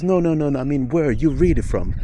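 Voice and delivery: insistent questioning. Retold or imitated. Retelling the questioner pushing past California, insistent.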